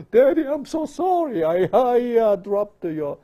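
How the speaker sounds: high, loud whimpering apology; high-pitched mock remorse, stammering; imitated apologetic child. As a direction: plead like a child who's in trouble. Acts out a child's apology to daddy.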